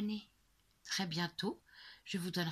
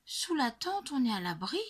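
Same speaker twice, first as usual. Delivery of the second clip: protesting; 6 semitones higher, 3 dB louder than usual. A narrator's reading. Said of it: "proteste Lulu Grenadine".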